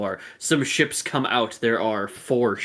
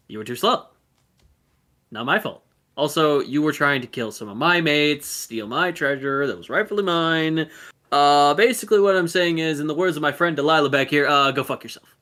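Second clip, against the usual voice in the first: defiant taunt; 3 semitones higher than usual. Acted. Pirate shouting back defiantly.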